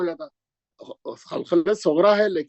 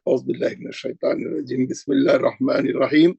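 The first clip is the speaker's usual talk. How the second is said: recitation opening; 4 semitones lower than usual. Shown as a demonstration. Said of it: "मैं अभी पढ़ दे रहा हूँ".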